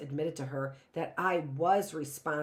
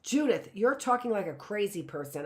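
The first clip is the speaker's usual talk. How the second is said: insisting; 3 semitones higher than usual. Acted. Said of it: "I insisted".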